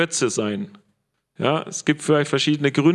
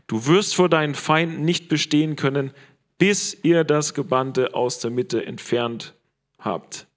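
letting it sink in. Shown as a demonstration. Preacher repeats the verse so listeners absorb it, deliberate and weighty. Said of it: "Lass das mal sacken".

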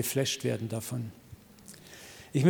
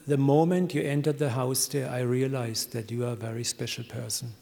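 imitated tearful voice; 2 semitones lower than usual. Big man confiding in the preacher, understated tearful voice. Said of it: "sagt mit tränenerstickter Stimme".

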